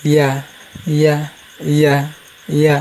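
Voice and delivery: ইয়া with the mid-tongue gliding lightly at the palate; light y glide in each ইয়া; natural unpressed Ya. Shown as a demonstration. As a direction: say ইয়া easily, no pressure. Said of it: "স্বাভাবিক উচ্চারণ করবেন".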